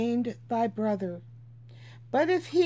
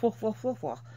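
short barky coughs with a laugh; throaty woof cough; 4 dB quieter than usual. Real, not acted. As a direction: clear the throat in little woofs. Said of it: "I don't know why I'm like".

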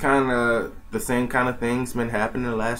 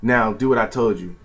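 louder, barked order; commanding Triple H; 5 dB louder than usual. Retold or imitated. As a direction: bark the order at him. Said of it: "Triple H is just like".

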